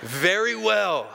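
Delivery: slow, chuckling reply; amused. Acted. Voice from the sky answering with an amused chuckle. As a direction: laugh as you grant it.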